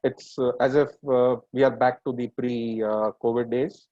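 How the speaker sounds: speaking through a face mask; muffled voice behind a mask. Real, not acted. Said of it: "my voice will be a bit muffled because I'll be speaking ... using my face mask".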